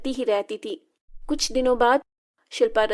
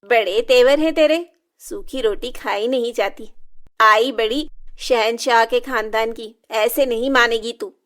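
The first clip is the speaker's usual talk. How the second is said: louder, threatening mother's voice; menacing anger; 4 dB louder than usual. Acted. Stepmother threatening Shilpa before burning her, loud and menacing.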